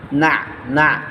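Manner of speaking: না closed on a mid-throat ayn; careful ayn. Shown as a demonstration. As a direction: stop না in the middle of the throat. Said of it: "আইনটা সুন্দর করে উচ্চারণ করতে হবে". (না-এর শেষে আইন স্পষ্ট উচ্চারণ)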